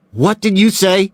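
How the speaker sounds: high, loud sharp challenge; threatening question; alarmed demand. A narrator's reading. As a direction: snap round at him. Doe names Mills's wife.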